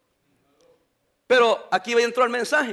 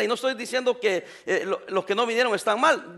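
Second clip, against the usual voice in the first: laughing; 4 dB quieter than usual. Real, not acted. Laughs while clarifying.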